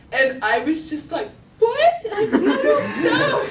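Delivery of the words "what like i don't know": very high, loud wail; hammed-up tearful disbelief; distraught teen. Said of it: "I just started crying".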